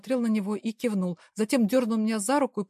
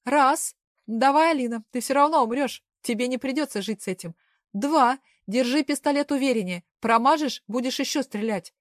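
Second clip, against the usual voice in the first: higher and louder, cruel and pushing; loud threatening count; 4 semitones higher, 6 dB louder than usual. Acted. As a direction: shout the count to break her.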